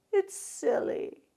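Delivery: put-on high, slow little-child voice; drawn-out, high toddler voice; toddler imitation. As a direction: imitate a two-year-old admitting it's a game. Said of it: "She calls it silly".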